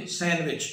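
सैंडविच with a silent d, san-wich; correct pronunciation. Shown as a demonstration. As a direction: say सैंडविच dropping the d entirely. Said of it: "इसको यूं पढ़ेंगे". (सैंडविच में ड खामोश, सही उच्चारण)

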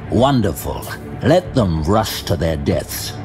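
ordinary delivery

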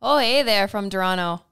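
a hint of Canadian, reading a fan's hello; lightly put-on Canadian greeting; mock Canadian accent. Wife reads a Toronto fan's question in a light Canadian accent. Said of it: "I see you do a lot of Canadian accents".

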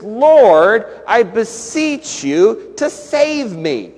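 loud Lord, then slow imploring plea; pleading. Retold or imitated. Pastor voicing the true meaning of Hosanna, slow plea. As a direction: beg slowly for rescue. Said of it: "the word Hosanna itself means".

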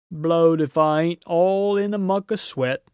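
loud, rough country giant; puffing giant. A narrator's reading. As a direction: gasp it out after hard work. Giant voice in story.

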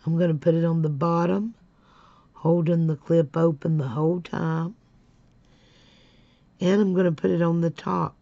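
talking around a pen held in the mouth; muffled words, pen between the teeth. Real, not acted. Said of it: "pen in my mouth trying to talk".

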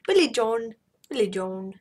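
mock Scottish lilt on Billy John; Scottish accent. Gamer trying a Scottish accent on Billy John. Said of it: "Scottish accent".

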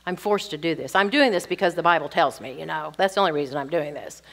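low, quick resigned grumble; comply under protest, low and hurried; grudging compliance. Acted. Wife complaining that the Bible makes her obey, grudging. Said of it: "and the wife can't say".

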